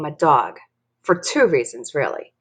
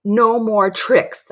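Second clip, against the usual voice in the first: firm, rising to a loud, slow finish; each declaration stronger than the last; building yell; 2 semitones higher, 4 dB louder, slower than usual. Acted. Dory declares her resolve to Mary, building to a yell. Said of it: "I yell".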